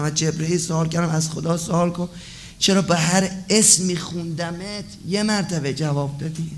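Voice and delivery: ordinary delivery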